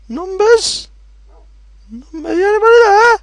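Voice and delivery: high, loud sing-song call. Pretend. Gamer calling for anyone hidden in the cave.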